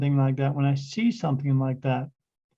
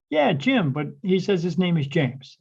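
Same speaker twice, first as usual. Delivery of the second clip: mild mock yell down the room, pitched up; called down the bar; 3 semitones higher than usual. Medium retells calling down to the couple, mild mock yell. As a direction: call it down the bar half-heartedly. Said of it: "And I yelled down".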